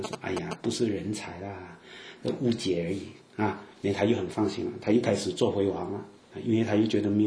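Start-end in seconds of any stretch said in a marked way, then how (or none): 0.2-3.0 lower, softer dismissive relief; relieved. Acted. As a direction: let the worry drop away, low and soft.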